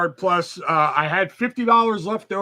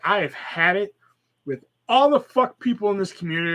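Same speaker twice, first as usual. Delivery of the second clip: mildly raised, exasperated rant; fed up; 4 semitones higher, 3 dB louder than usual. Retold or imitated. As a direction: let the irritation push the voice up a little. Acting out how they snapped.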